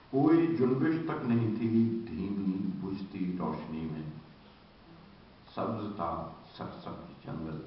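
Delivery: Urdu poetry recital with long pauses; verse recitation. Acted. Translator recites his version to an audience, paced poetic recital. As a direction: lift each opening, let the endings fall away.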